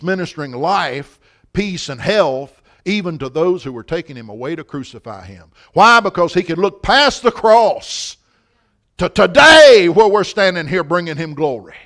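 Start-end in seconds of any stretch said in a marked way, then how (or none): 5.7-11.8 sudden loud burst of preaching fervour. Real, not acted. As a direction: preach it with a big swell on the key word.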